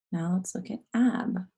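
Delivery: whispered teacher prompt. Real, not acted. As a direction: whisper it like a classroom secret.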